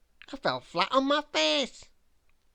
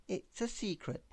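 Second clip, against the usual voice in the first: hushed secret; 2 semitones lower, 9 dB quieter than usual. A narrator's reading. Winking, sharing a secret.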